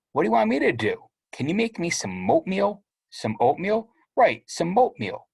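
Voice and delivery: high-pitched whining little brother; whiny little kid. Acted. Little brother whining to Steven for oatmeal, high and pleading. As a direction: whine it like a small boy begging.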